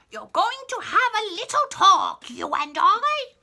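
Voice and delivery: put-on high, loud bossy old queen; old lady voice. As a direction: scold like an imperious old lady. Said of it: "I did the old lady voice".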